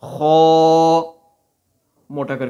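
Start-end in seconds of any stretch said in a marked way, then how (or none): 0.0-1.0 خا said heavy with a full mouth; as if something fills the mouth on خا; full-mouthed kha. Shown as a demonstration. Teacher reminding pupils, خا said full-mouthed. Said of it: "منہ بھر کے پڑھنا ہے".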